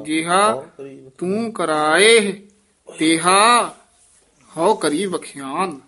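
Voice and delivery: ਜੇਹਾ then a small pause; pause after ਜੇਹਾ. Shown as a demonstration. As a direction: clear pause right after ਜੇਹਾ and after ਤੇਹਾ. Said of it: "ਜੇਹਾ ਪਦ ਤੇ ਯਮਕ ਲਾ ਦੇਣੀ ਹੈ".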